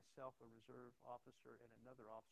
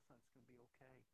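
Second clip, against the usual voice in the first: put-on quiet, soothing reassurance to a child; reassuring; 9 dB quieter, faster than usual. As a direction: comfort a boy softly. Reassuring a frightened boy.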